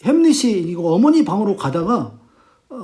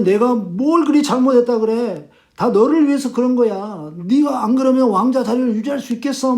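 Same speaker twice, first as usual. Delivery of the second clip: acted-out mother, higher-pitched protest; indignant self-justification; 4 semitones higher than usual. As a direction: defend yourself to an accusing son. Mother's retort in acted quarrel. (억울한 듯 높여 항변하는 어머니 말투)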